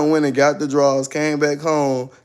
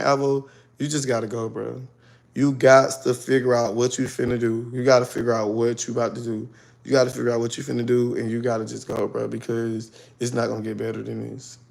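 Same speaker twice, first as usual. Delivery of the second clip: quiet resigned self-talk; 4 semitones lower, 5 dB quieter than usual. Retold or imitated. Telling herself to leave.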